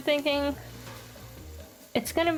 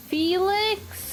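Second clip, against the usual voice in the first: startled; 9 semitones higher than usual. Real, not acted. Misreads meat as Felix.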